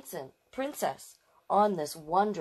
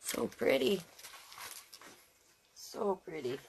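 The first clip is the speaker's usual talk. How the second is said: 1 hushed admiration; 7 dB quieter than usual. Real, not acted. Soft admiration again.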